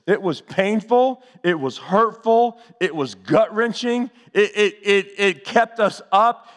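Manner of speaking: slow, weighty preaching cadence. Acted. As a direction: lay each word down heavy in the sermon. Preacher building on pain.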